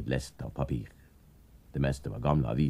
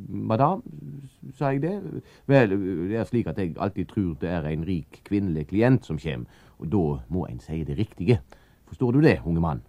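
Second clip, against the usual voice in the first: character voice; 5 semitones higher, 4 dB louder than usual. Acted. Gaspar explains himself to Anders.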